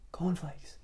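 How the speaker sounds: strong whispered "Cornflakes"; loudest whisper. Acted. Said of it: "tried his loudest whisper".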